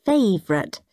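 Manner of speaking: gushing granny. Acted. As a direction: coo thanks to a grandchild. Granny gushes over her gift.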